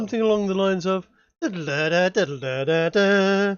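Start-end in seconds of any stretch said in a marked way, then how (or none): 1.4-3.6 sung ringtone jingle; humming a ringtone. Retold or imitated. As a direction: hum it like an old phone ringing. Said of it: "someone has a Nokia in the nineties".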